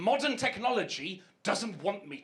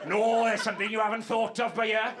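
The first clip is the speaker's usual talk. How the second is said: louder hammed-up know-it-all; mocking businesswoman; 3 dB louder than usual. Comic mocking the lawn seller's objection, louder mock whine. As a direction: mimic her smug objection, louder. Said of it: "You haven't spotted a fucking weakness".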